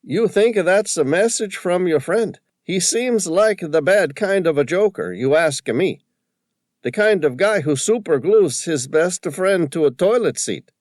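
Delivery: high, loud, excited Tony voice with a put-on accent; an indignant shopkeeper squawking about the photo; riled old Tony. A narrator's reading. Shopkeeper upset at the vandal, loud high indignant voice.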